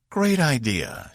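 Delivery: slow, dry and drawn out; sarcastic. A narrator's reading. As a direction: lay the sarcasm on openly. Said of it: "not masking the sarcasm in her voice".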